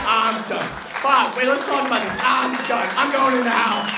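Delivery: high, loud fed-up outburst; mock storming off. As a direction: imitate someone quitting in a huff. Bob voiced storming off.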